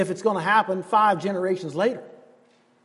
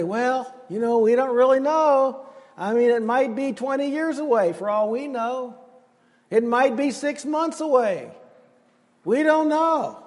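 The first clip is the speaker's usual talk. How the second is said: mock doubtful shrug; 4 semitones higher than usual. Mocking doubter.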